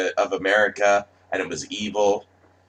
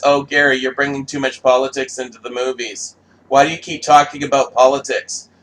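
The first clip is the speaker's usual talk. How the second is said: mocking critics; 4 semitones higher, 4 dB louder than usual. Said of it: "everybody says".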